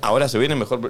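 monotone announcement with no lift; flat, bored read. Shown as a demonstration. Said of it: "no diga".

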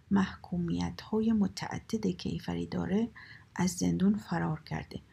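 slow, measured police circular; formal telegram announcement, deliberately paced; official bulletin reading. Acted. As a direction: read out a wanted notice, item by item.

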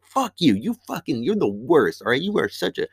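imitating a friend's angry rant; mad cussing. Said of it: "Justin got so fucking mad. He just starts cussing".

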